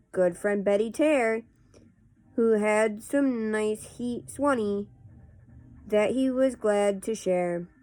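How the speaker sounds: casual read-aloud of nonsense verse; poetry reading. Acted. Host reading Runny Babbitt poems to viewers, measured poetry reading. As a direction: read silly verse line by line, with pauses.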